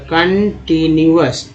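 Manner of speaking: कंटिन्यूअस slowly, part by part; syllable-by-syllable demo. Shown as a demonstration. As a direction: sound out कंटिन्यूअस, ending in अस. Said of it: "ओ यू एस को अस बोलते हैं". (कंटिन्यूअस को धीरे, टुकड़ों में बोलें)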